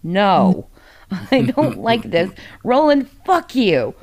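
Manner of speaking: playful anger at a book character; mock outrage. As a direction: laugh through it, then blame Roland. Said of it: "and I'm just like".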